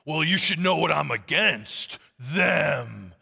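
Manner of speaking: hammed-up, strained accusation; low, drawn-out final word of contempt; mock denouncing. Politician telling a voter whom he is against, mock accusing.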